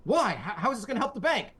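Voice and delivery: high, hammed-up incredulous protest; mock exasperated bewilderment. Bystander asking the gym hero for sense, mock-exasperated. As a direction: question it in a strained high voice.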